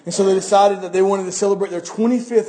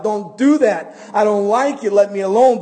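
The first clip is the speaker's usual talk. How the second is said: raised, higher voice in protest; acted yell; 4 semitones higher, 5 dB louder than usual. Teacup to the master shaping it, acted protesting yell. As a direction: yell it in mild earnest, pushing back. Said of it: "And I yelled out".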